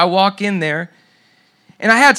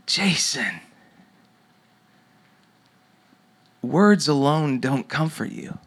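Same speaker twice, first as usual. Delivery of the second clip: inner voice of God; 3 semitones lower, 4 dB quieter, slower than usual. Retold or imitated. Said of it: "this voice comes to my imagination".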